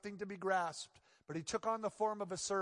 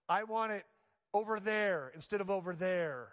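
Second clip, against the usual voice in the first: mock demanding whine; 3 semitones higher, 5 dB louder than usual. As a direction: insist like a fussy child. Mocking the demanding self.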